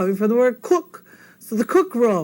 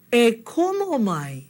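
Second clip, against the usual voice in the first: slow model phrase; 3 semitones higher, slower than usual. Shown as a demonstration. Models the invitation slowly for learners.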